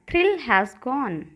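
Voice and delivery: very slow, each word stretched; slow drill. Shown as a demonstration. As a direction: say it slowly so students can repeat. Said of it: "कहिए".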